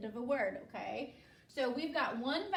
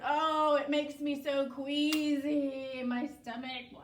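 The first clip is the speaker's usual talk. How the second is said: mock queasy; 6 dB louder than usual. Acting out the word queasy.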